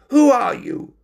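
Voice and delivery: high, loud fearful question; scared little question; frightened. Acted.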